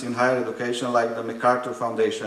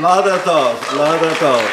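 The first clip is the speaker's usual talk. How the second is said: loud, amused protest; laughing no-no, louder; laughing denial; 3 semitones higher, 7 dB louder than usual. Real, not acted. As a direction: wave off the joke, laughing.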